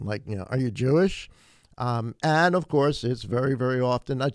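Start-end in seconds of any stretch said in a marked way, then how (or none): 0.5-1.3 mildly derogatory question, rising at the end. Retold or imitated. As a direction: imitate a disdainful questioner, lightly. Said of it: "in a derogatory tone".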